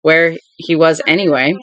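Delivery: even, measured reading of a thriller; story narration. A narrator's reading. Vlogger reading a thriller passage aloud, steady narration. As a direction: read the novel aloud to the camera.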